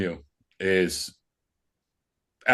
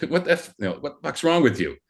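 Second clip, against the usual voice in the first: retold indignant challenge; 6 semitones higher than usual. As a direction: imitate a teammate calling someone out. Quoting teammate confronting angry player.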